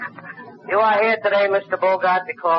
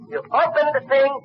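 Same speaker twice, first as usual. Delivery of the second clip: higher still, fumbling "you opened the thing" in the rush; even more excited; 12 semitones higher than usual. Retold or imitated. Fan fumbling the tank scene for Bogart, higher and excited. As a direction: lose the word as the excitement peaks. Climax of retold battle scene.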